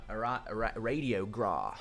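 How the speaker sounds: slow, careful American "Radio Gra"; a try at an American accent. Shown as a demonstration. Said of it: "I'm trying to say it in an American accent".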